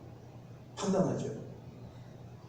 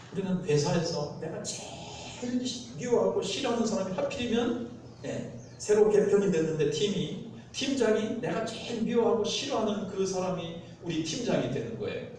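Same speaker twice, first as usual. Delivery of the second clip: ordinary talk, nothing marked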